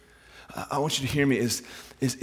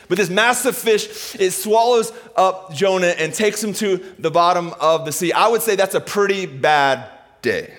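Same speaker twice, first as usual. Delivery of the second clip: raised preacher's voice, stretching key words; dramatic sermon storytelling; 6 semitones higher, 6 dB louder than usual. Real, not acted. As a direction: tell it big to a congregation.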